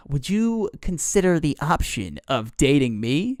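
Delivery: awkward suitor. Acted. Bartholomew asks Alex to date him, as an awkward suitor. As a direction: put on a hint of a would-be charmer.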